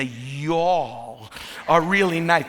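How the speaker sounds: attempted Southern drawl, stretched on y'all. Shown as a demonstration. Northerner correcting himself for Southern listeners, attempted Southern drawl. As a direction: try on a slow Southern drawl. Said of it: "I'm not used to the draw".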